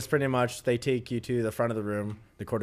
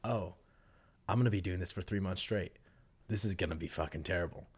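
much softer and lower, sinking; quiet dread; 7 semitones lower, 10 dB quieter than usual. Retold or imitated. Recruit in bed realizing his misery, soft low dread. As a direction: let the dread sink in quietly.

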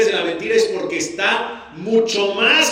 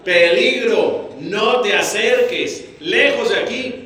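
Peligro slow, then higher warnings; mock warning sign; 4 semitones higher than usual. Shown as a demonstration. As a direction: read it like a danger sign. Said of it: "¿Y qué dice ahí?".

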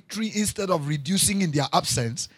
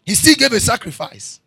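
louder and higher, punching still; preached loud; 6 semitones higher, 10 dB louder than usual. Acted. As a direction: hammer the repeat home. Repeated line, second preached loud.

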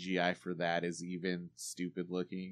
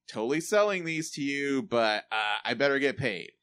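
mock Weeds character, higher and louder; hammed-up mercenary turncoat voice; imitating Mary Louise Parker; 6 semitones higher, 8 dB louder than usual. Mocking the actress's turncoat to the hosts. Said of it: "how she delivers it".

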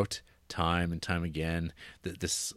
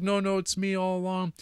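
lightly voiced old woman, pitched higher; a touch of a pleading mother-in-law; mother-in-law confessing; 11 semitones higher than usual. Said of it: "and it's like".

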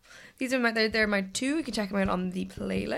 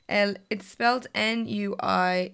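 spelling it out; slower than usual. Shown as a demonstration. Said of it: "very difficult name".

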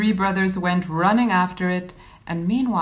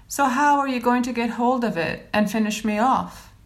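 mild mocking; 2 semitones higher than usual. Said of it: "he mocked".

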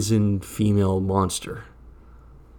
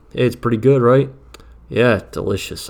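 loud fake cheer; 4 semitones higher, 9 dB louder than usual. Loud cover chat continues.

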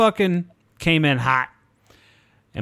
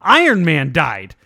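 higher, louder, slower mock gossip; gossiping lady; 5 semitones higher, 4 dB louder than usual. A stranger at the gate announces Iron Man died, in a higher, louder, slower mock gossip. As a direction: ham up a woman breaking big news. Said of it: "And she goes".

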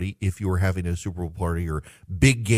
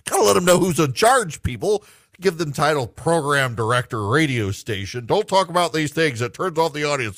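mocking program director; 5 semitones higher, 3 dB louder than usual.

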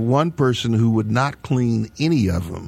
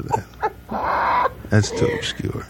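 much higher, mocking his own line; mocking squeaky repeat; much slower than usual. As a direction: squeak it out in mockery.

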